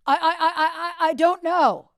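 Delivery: loud, high confused stammer; impression of a rock singer. A singer on the phone, lost and confused. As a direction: stumble like you have no idea where you are. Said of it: "He had no idea where he was".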